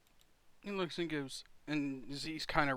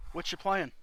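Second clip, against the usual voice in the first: kobold voice; 6 semitones higher, 9 dB louder than usual. Acted. Kobolds ask about cards.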